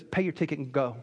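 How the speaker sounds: low, soft dismissal; loving judge. Retold or imitated. Judge dismisses the young speeder's excuses, loving and low. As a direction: quietly send him off, as the kindly judge. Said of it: "very lovingly said".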